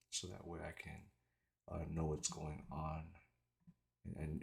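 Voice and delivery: slight retainer lisp; wearing a retainer. Real, not acted. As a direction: speak with retainers in. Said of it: "it's 'cause I have my retainers in".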